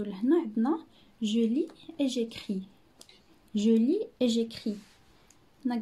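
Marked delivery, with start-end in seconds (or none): 1.2-2.6 je lis et j'écris read slowly; slow title reading. Shown as a demonstration. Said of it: "reading title slowly". 3.5-4.8 je lis et j'écris repeated even slower; slow model reading. Shown as a demonstration. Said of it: "repeat title slowly".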